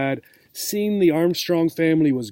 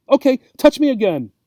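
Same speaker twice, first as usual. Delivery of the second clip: eager cat; 8 semitones higher, 6 dB louder, faster than usual. Acted. Cat eagerly urges Obie.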